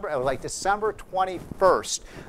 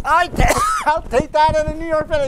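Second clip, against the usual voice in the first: high, loud, laughing burst of eagerness; retold, hammed-up delight; excited imitation of Trump; 11 semitones higher, 6 dB louder than usual. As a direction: jump at the offer like a kid on Christmas. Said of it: "He was so excited".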